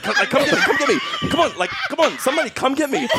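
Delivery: high whiny calls to the Jedi; high pleading calls. Retold or imitated. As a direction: call for rescue, high and pleading. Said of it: "yelling at the Jedi".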